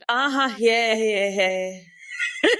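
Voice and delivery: laughing. Acted. Laughing after a taunting rant.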